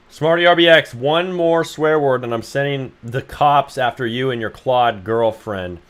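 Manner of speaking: hammed-up loud warning; mock threat. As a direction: threaten the chatter like a strict parent. Voicing scolding threat.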